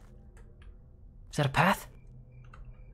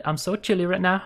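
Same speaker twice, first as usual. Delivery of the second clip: shivering. Real, not acted. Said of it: "I'm shivering".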